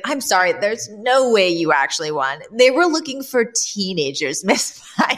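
mildly incredulous boss; imitating a man who can't believe it; lightly acted disbelief; mock incredulity. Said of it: "He's literally incredulous".

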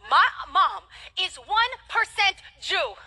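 slow, laughing announcement; laughing reveal. Real, not acted. Preacher revealing Jewish ancestry, laughing. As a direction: savor it with a laugh.

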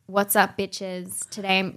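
dog voiced in a normal speaking voice; realistic dog voice. Friend demonstrating a deadpan dog caption voice. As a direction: say it as if the dog talks like you. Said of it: "in the realistic voice".

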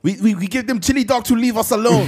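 high, loud hammed-up German accent; mock German soldier. German soldier begging to be left alone, mock German accent. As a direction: beg in a cartoon German accent.

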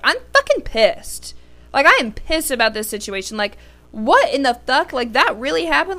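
high, mock-outraged rant; retold anger. Retelling to viewers how she ranted yesterday, mock furious. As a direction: replay yesterday's fury with a hint of disbelief. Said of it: "I was angry".

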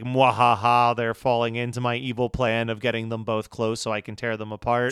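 low scheming villain, lightly voiced; slow theatrical villain menace. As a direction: gloat like a cartoon villain, understated. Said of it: "Mister Burns twiddling his fingers like".

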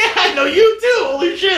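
high, loud mock-starstruck yell; excited recognition. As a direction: shout back in hammed-up amazement. Retells his own thrilled recognition.

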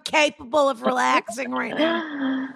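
mock-offended rhetorical question; indignant retort. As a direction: push back at being told to relax. Mock retort to being told relax.

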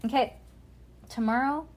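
ordinary delivery, nothing marked

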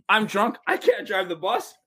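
put-on high, laughing shout of a drunk; laughing drunk driver. Bus driver telling the team he's drunk, laughing shout. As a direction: blurt it out cracking up.

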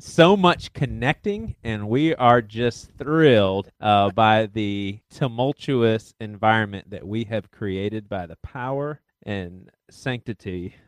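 upbeat youth pastor. Pretend. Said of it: "Can you talk like a youth pastor?".

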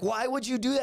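mock incredulity; retold incredulous cousins. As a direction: mimic baffled friends reacting. Cousins react through laughter.

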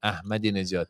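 Ahmadinejad said as "Ah-madi-ne-jad"; pronunciation demo. Shown as a demonstration. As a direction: model Ahmadinejad with an audible h. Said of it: "how sa-, say it?".

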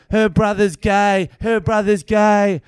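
high, loud, drawn-out mock yelling; insistent repeated shout. Woman films comedian, repeating accusation in mock shout. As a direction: imitate someone hammering one accusation over and over. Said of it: "She just keeps going".

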